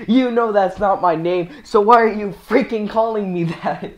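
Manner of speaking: angry yelling. Retold or imitated. Teacher scolding a student over his name, mock angry yelling. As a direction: act out an indignant teacher telling someone off. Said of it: "starts swearing and yelling at her".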